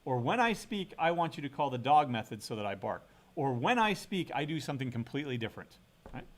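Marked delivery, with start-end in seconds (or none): 0.2-3.1 playful creature demand; voicing the cat dog. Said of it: "you have to say". 3.5-5.8 playful creature demand; voicing the cat dog. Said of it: "you have to say".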